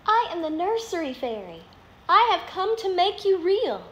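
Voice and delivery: high, light fairy voice; gentle fairy voice. Acted. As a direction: lift the voice like a kind fairy. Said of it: "she said".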